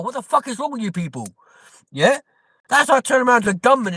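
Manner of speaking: rising outraged rant, high and fast; escalating comedy rant. Real, not acted. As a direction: build the outrage line by line. Ranting about pen licenses.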